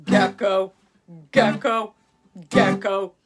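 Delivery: loud chanted gecko cry; repeated loud gecko call. Acted. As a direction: call out the gecko's name like the lizard's croak. Gecko calling out at night.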